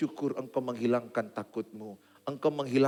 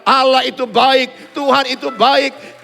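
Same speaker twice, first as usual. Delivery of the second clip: much higher and louder, shouted praise; full-force preaching; 14 dB louder than usual. Acted. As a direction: lift the crowd with a roaring declaration. (khotbah berapi-api dengan suara lantang)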